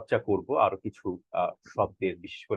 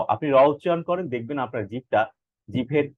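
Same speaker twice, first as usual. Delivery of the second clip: usual speaking voice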